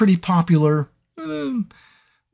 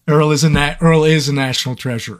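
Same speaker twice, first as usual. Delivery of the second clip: Earl voice. Shown as a demonstration. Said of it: "he talks like this".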